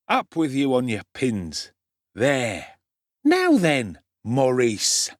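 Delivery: a hint of a swaggering young pickpocket; cocky street boy. The Dodger offering Oliver food, lightly voiced urchin.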